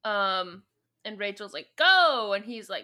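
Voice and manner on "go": high, loud command; mock yelled order. Rachel urging escape, high loud mock yell. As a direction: punch it out as a yell.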